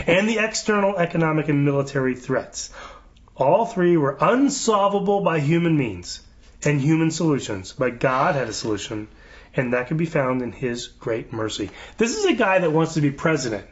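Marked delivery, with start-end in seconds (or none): 0.1-11.7 solemn read-aloud. Acted. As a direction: read it out deliberately, like a proclamation. Reads prayer-event website aloud.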